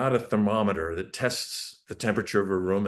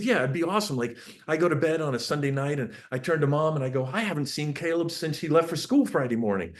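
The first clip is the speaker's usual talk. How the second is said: excited dad; 5 semitones higher than usual. Retold or imitated. Dad hyping life with freedom.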